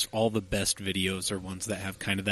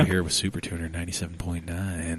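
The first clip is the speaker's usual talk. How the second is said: radio DJ voice; 4 dB louder, much faster than usual. Pretend. Mock radio DJ intro.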